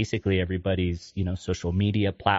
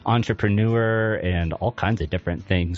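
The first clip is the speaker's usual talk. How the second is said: radio host voice. Real, not acted. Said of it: "your radio voice was much more silky smooth".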